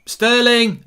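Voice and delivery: high, loud commentator cry; excited shout. Real, not acted. Commentator calling Sterling's chance, excited shout. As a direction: shout the player's name as he breaks.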